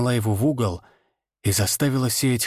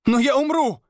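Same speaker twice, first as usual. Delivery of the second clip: high, loud scream of fear; 14 semitones higher, 3 dB louder than usual. A narrator's reading. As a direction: she screams it. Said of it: "закричала она".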